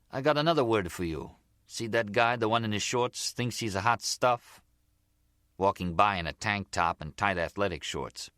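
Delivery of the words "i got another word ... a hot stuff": lightly voiced gangster, a little higher; the Zip, chatty gangster. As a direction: chat confidingly as a slightly higher-voiced mobster. Voices the Zip teaching Gloria.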